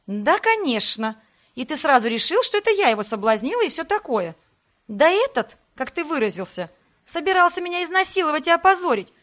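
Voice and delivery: snapping. Acted. Heroine barks at Sebastian for yelling at her. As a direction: bark it back at him, fully worked up. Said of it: "рявкнула я".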